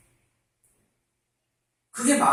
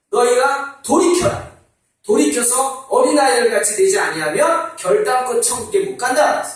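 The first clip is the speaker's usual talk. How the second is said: solemn command; 4 semitones higher, 4 dB louder than usual. Acted. Jesus commanding disciples.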